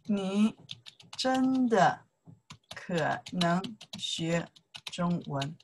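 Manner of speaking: imitating the student. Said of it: "When he say".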